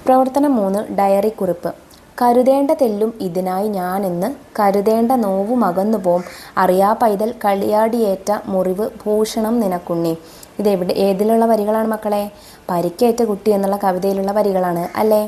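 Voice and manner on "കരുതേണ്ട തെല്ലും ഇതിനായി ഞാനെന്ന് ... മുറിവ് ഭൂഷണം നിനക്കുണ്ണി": poem recitation. Acted. Teacher recites poem lines. (കവിത ചൊല്ലുന്ന പോലെ പതുക്കെ)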